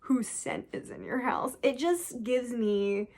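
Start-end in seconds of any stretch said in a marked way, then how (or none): 0.0-1.6 slow, hushed mock-eerie question; mock solemn vampire line; mock creepy. Shown as a demonstration. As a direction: linger over scent like a creep. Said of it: "that would be less weird than".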